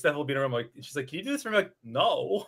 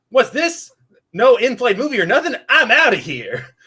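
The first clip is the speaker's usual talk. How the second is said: booming, loud, high, very nasal put-on voice; 7 semitones higher, 9 dB louder than usual. Struggling to get a voice right, the speaker attempts a specific nasal voice. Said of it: "this really specific nasally".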